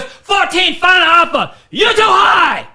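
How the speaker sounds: put-on high, shouted Asian-accent haggling; imitation Asian-accented customer, loud and insistent; thick mock Asian accent. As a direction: yell it out in a hammed-up Asian accent. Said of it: "she had a very thick, like, an Asian type thing".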